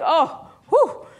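slow, breezy delight over the class; lightly voiced naive delight. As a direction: savour how lively the class is. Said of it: "I'm just like".

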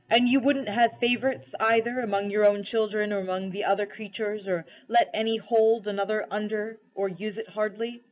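solemn, measured questioning with mild authority; lightly voiced lion ruler, questioning. Aslan tests the cabby for kingship, lightly solemn. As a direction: test him gently but gravely.

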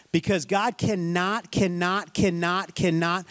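"cannot" hammered over and over, slowly; emphatic repetition. Real, not acted. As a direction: drive "cannot" home each time. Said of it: "I can't emphasize enough".

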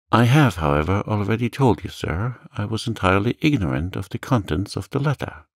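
put-on earnest, slightly alarmed young man; earnest young Dante. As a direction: plead innocence to an official. Dante protests his ignorance.

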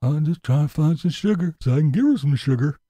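sleazy mock line; mocking Tim. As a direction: parody of him looking for love. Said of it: "He needs somebody".

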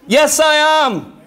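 slow, firm, emphatic answer; firm reply. Acted. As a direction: plant each word, slowly and certainly. Answering the flesh firmly.

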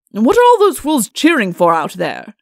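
loud, testy outburst; cross royal demand; irritated king. Acted. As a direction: break off in exasperation, loudly. King breaks off, irritated by cheering.

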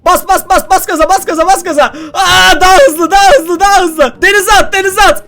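high, urgent repeated commands; panicked cheering-on during a chase; frantic urging. Real, not acted. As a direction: egg it on frantically, pitched high. Urging the bird to flee.

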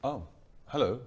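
slightly posh, hesitant greeting; suddenly posh. Acted. Son greets stranger at parents' door, awkwardly posh. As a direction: awkwardly slip into a posh accent. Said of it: "Why have you gone".

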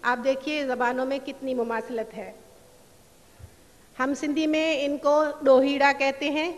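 usual speaking voice

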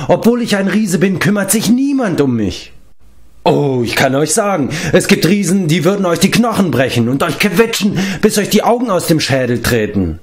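high, aggrieved wailing; sobbing complaint. A narrator's reading. Neglected giant pleading for attention, wailing. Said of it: "schluchzte er".

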